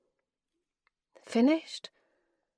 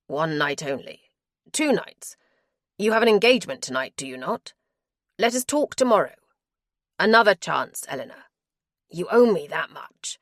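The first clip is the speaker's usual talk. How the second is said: louder, pleading husband's voice; he begs her to stay, pressing hard; begging husband; 5 dB louder than usual. Acted.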